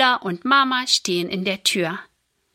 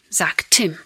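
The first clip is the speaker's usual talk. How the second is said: plain reading voice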